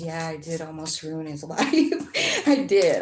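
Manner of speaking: voicing Matthew while chuckling through it; giggly retold confession; laughing admission. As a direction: laugh out the confession, half-sheepish.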